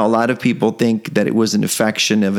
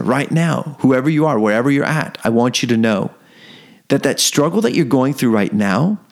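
higher, rising exhortation, listing God's names; building preaching; 4 semitones higher than usual. Acted. Preacher urging the struggling listener to lean on God, building. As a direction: lift the listener up with each line.

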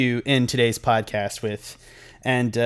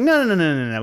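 imitated protest; 4 semitones higher, faster than usual. Girlfriend's refusal acted out.

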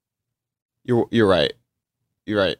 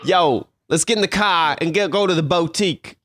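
put-on Queens gangster accent. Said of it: "Queens, you know, like".

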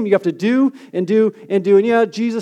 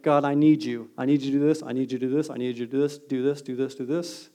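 imitating a pleading prayer, fading softer; mock needy prayer; 6 semitones lower, 7 dB quieter than usual. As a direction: repeat the demand, quieter each time. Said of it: "Or more like".

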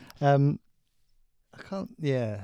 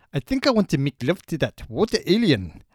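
put-on Pistorius accent. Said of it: "I may have thrown you with my accent".

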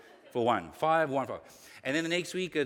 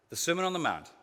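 measured, deliberate quote reading; slow reading; 3 semitones higher than usual. Real, not acted. Preacher reading a quote to the congregation, slowly. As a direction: read it out slowly and carefully. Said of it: "Let me read this slowly".

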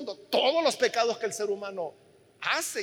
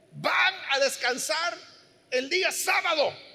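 slow, raised voice proclaiming God's rule; slow proclaiming command; 4 semitones higher than usual. Retold or imitated. Preacher voicing God to the congregation: slow proclaimed command. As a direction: boom it out slowly like a decree.

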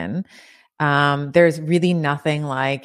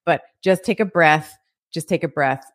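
inner coach; 2 semitones higher, faster than usual. Retold or imitated. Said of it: "my frontal lobe is like".

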